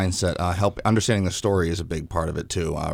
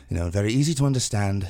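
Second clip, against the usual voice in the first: Jekyll voice; 2 semitones higher, faster than usual. Shown as a demonstration. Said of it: "Doctor Jekyll would sound a bit more like this".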